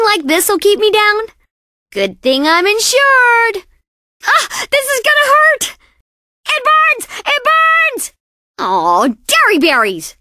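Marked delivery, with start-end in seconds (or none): 4.3-8.1 high wails of burning pain; hammed-up agony; pained anguish. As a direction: cry out that it burns. Anguish from burn.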